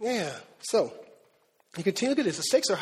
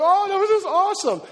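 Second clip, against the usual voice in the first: much higher, louder gushing praise; imagined praise; 9 semitones higher, 5 dB louder than usual. Retold or imitated. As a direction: gush like the wife impressed with him. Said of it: "She should be like".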